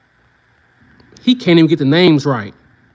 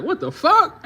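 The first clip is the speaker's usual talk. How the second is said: mock shocked brother; 10 semitones higher than usual. Imagined brother reaction.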